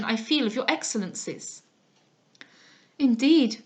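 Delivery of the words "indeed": louder indignant exclamation; indignant cry. Acted. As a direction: snap back in disbelief. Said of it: "cried I".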